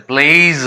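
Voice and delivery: प्लेज with an ee glide before a buzzed z; Y as EE, final Z. Shown as a demonstration. Teacher explains the letter Y, प्लेज with ee glide and final z. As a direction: stretch प्लेज through ee into z. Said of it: "यहाँ वाई का ई जैसे".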